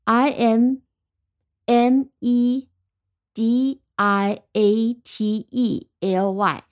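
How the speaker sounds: slow, letter by letter, with pauses between groups; spelling out. Shown as a demonstration. Teacher spelling the word for learners, slowly letter by letter. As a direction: spell it slowly in syllable chunks. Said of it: "再拼一遍".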